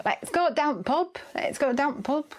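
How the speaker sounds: lightly imitated Yorkshire accent; a hint of put-on Yorkshire. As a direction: mimic a uni friend's Yorkshire speech. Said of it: "It's actually not your Yorkshire accent".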